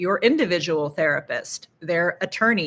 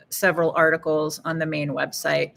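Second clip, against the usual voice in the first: normal talking voice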